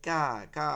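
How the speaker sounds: "কা" said lightly, thin vowel; light sound. Shown as a demonstration. Teacher showing the light letter, lightly. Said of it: "হালকা হবে".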